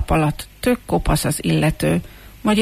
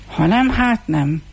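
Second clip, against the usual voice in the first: slow, higher-pitched resigned reply; resigned muttering; 5 semitones higher, slower than usual. Acted. Rejected comb answers the hairdresser, muttering in resignation. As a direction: give up and slowly shrug it off. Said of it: "motyogta zengő bongó fésű".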